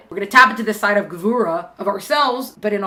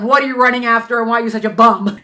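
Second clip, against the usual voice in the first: harsh self-scolding; 6 dB louder than usual. Retold or imitated. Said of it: "This is a different kind of talk".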